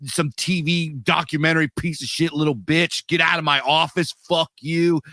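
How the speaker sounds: mock angry outburst. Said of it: "Edwards, like, flipped out".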